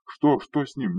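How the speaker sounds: high, loud bewildered shout; frantic shouted question; panicked yell. A narrator's reading. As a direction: yell back not understanding. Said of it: "заорал я в ответ".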